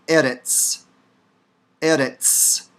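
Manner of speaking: ERETZ with a tapped r and sharp ts; Hebrew pronunciation demo. Shown as a demonstration. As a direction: model the word eretz for learners. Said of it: "Hebrew word for land".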